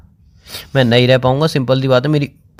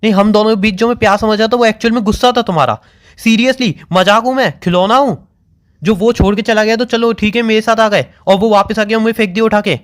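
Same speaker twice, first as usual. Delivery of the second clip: hurt accusation; 5 semitones higher than usual. Real, not acted.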